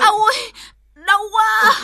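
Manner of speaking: pained cry. Acted. Labour pain cry.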